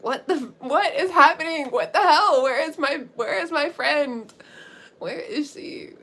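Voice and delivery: high, loud retold panic, easing off at the end; freaking out. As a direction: act out a frantic friend demanding answers. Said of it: "she's freaking out".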